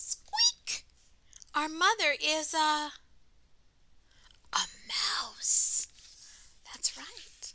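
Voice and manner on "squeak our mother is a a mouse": put-on slow, tiny, squeaky little baby mouse voice. Answering the robin from inside the house, a baby mouse speaks in a squeaky voice. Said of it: "A squeaky voice inside the house said".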